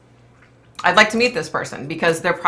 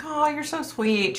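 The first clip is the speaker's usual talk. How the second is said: high, soft, drawn-out gush; slow, softly gushed retold thanks; gushing gratitude; 10 semitones higher, 5 dB quieter, slower than usual. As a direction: imitate a touched, grateful stranger. Quoting a grateful lady in story.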